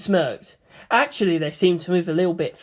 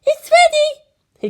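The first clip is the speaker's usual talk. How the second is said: much higher and louder, slow and drawn out; calling out; 8 dB louder, much slower than usual. Acted. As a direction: call everyone to the table. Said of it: "Hikari called out".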